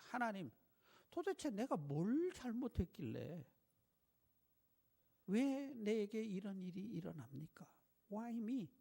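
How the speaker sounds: a hint of Job's pained plea, dropping to a whisper; lightly voiced sufferer asking why; anguished plea. Job asking God why he suffers, a hint of anguished whisper. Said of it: "고통스러운 호소하는 장면이".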